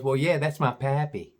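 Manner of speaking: imitated Southern gal; deep Southern accent. Gal explains who the man is, mock Southern accent. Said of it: "She had a real deep Southern accent".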